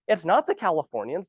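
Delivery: ordinary talk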